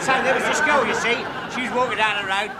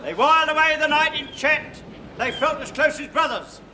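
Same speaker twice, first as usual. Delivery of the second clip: grand tragic wailing. Acted. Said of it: "a little dramatic monologue".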